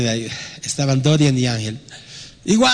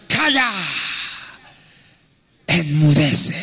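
commanding rebuke; 2 semitones higher, slower than usual. Acted. Jesus rebukes the wind.

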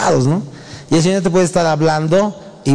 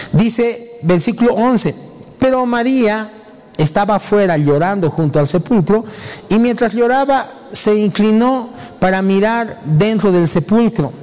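raised, measured Bible reading; higher-pitched, deliberate recitation; scripture reading; 6 semitones higher than usual. Acted. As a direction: read the verse out to a congregation. Reads scripture aloud.

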